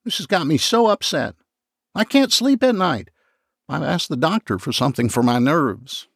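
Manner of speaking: high, theatrical upset; hammed-up tearful complaint; dramatic distress. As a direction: ham up the nerves, pitched high. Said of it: "pulling it dramatically out of the box".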